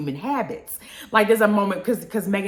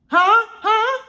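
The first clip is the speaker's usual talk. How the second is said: high, loud questioning huh; a sharp high huh; incredulous huh; 12 semitones higher, 7 dB louder than usual. Real, not acted. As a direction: demand an answer in disbelief.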